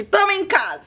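playful high echo of "tamo em casa". Real, not acted. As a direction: lift "tamo em casa" up high the second time. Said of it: "tamo em casa aqui".

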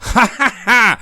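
short harsh high scornful laugh. Acted. Thug Jan laughing harshly at the stranger. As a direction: bark out a mocking ha. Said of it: "สลัดเสียงหัวเราะกระด้าง".

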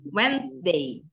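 "Wednesday" as WENZ-day, two syllables; silent middle. Shown as a demonstration. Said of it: "tengahnya tuh nggak dibaca". ("Wednesday" dibaca WENS-dei, tengahnya tidak dibaca)

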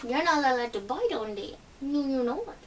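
sing-song little telling-off; playful "no, you're not"; gentle pet scolding. Real, not acted. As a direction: softly chide a pet for biting. Cooing scolding aside, likely to a pet.

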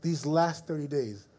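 voice of God. Retold or imitated. Voice of God in spirit.

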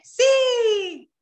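a high, loud, bright yes; high and loud, an eager reply. Shown as a demonstration. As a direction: answer like an excited hill. Teacher voices the other hill.

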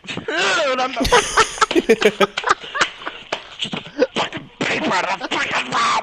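frustrated outburst dissolving into laughs; anger turning to laughter. Real, not acted. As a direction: start annoyed, break into laughter. Paper popper fails, he cracks up.

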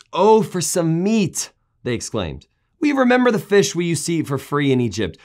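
high, loud whiny complaint; a crowd moaning about the food; whining. Acted. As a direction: whine like spoiled grumblers. Israelites complain for meat.

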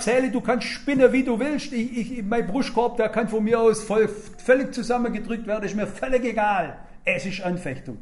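defiant. Retold or imitated. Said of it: "Ich sag".

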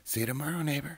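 high, loud, cheery rat voice; cheery Ratty. Acted. Ratty telling Mouse about his doorway, high and cheery. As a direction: bounce it out like a busy pack rat.

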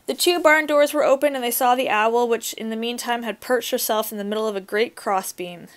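reading a fairy tale aloud to a class; story reading. A narrator's reading. Teacher reads story aloud.

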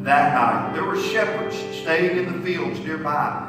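animated storytelling, stressed phrase openings; Bible story reading. Acted. Leader reads Luke's Christmas story to kids, animated reading. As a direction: read it out expressively for children.

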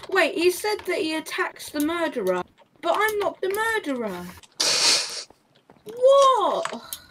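rising confused protest; confused outrage. Real, not acted. Confused outburst at game.

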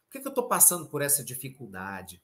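low, soft tired plea to God; weary lament. Retold or imitated. Speaker recalling his tired night prayers, weary lament. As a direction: sigh it out like a worn-out night prayer. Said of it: "sabe, cansado, à noite falava".

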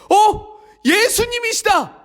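high, happy surprise; light up at seeing him; delighted Peter. Acted. Peter recognising Jesus, high and delighted.

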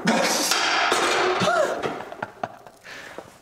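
high gasping wow then laugh; exhausted whoop. Real, not acted. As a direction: burst out, spent and relieved. Set finished, exhausted relief. (지쳐서 터지는 감탄)

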